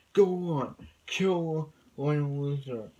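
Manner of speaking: acted-out urging, drawn out at the end; mock villain's shout. Villain keeps urging Clark to kill.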